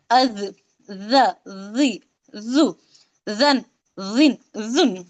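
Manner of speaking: slow, low drawn-out letter sounds with vowels; Arabic letter demo. Shown as a demonstration. Teacher drilling letter sounds for online students. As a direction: sound out each letter slowly for the class. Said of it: "तो इसे कैसा पढ़ेंगे हम?".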